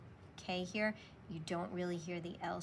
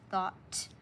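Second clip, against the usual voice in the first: whispered dictation. Shown as a demonstration. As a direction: whisper Thought as a dictation word. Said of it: "write that in two different words".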